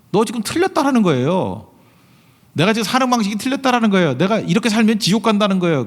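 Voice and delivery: stern rebuke. Acted. Pastor voicing the rebuke the world hates, stern and high. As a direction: tell them to their face they are wrong. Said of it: "세상 사람이 제일 듣기 싫은 소리거든요".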